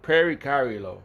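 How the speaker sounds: "Pericardio" said loudly, syllable by syllable; Greek pronunciation. Shown as a demonstration. Preacher repeating the phone's Greek word, "Pericardio" pronounced emphatically. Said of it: "That's how you say it in Greek".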